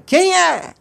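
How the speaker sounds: very high, loud returned call; acted echo of an angry yell; mountain echo shout. A narrator's reading. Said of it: "devolveu da montanha".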